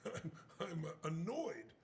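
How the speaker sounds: drawled and slow, barely bothered; mildly annoyed, slow; slow understated annoyance. Retold or imitated. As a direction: play it down, unruffled. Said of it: "hearing him say".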